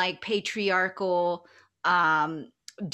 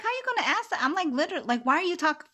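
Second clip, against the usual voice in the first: higher, louder indignant comeback; indignant high outburst; 10 semitones higher, 6 dB louder, faster than usual. Retold or imitated. To a man dismissing her heritage, indignant and loud. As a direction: call him out, outraged and shrill with disbelief. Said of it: "I just channeled her Duha right quick".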